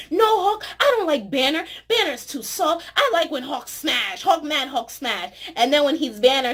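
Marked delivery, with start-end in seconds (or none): 0.1-5.3 Hulk talking. Retold or imitated. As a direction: boom it out like a simple brute. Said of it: "Thor is like".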